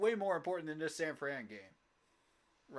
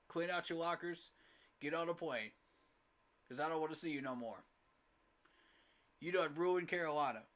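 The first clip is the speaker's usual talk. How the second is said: angry dismissal. Real, not acted. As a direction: tell them to get out, furious. Fan angrily dismissing team staff.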